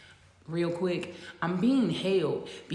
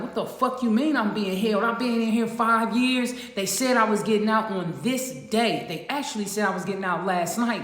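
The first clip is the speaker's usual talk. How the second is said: angry retort; 3 semitones higher, 5 dB louder than usual. Retold or imitated. Retold outburst at the officer.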